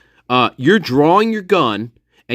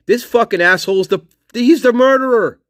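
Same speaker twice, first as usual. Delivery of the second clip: imitating an angry cop; 7 semitones higher than usual. Imagined New York cops about the suspect, mock angry shout. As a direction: bark it like a cop sure he's got the killer. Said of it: "They would have been like".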